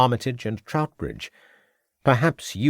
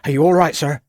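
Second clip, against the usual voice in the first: concerned inquiry; 6 semitones higher, 6 dB louder, faster than usual. A narrator's reading. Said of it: "inquired Crabbe".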